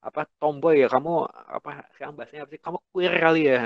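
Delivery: lightly voiced mocking parent. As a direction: jeer at the child like a blunt parent. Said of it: "orang tua ngomong kayak gitu frontal".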